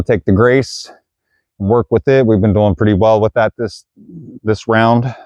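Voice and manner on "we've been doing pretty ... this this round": slightly winded, catching breath. Real, not acted. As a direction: talk while a bit out of breath. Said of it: "I'm out of breath".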